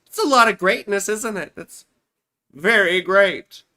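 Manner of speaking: mock awe.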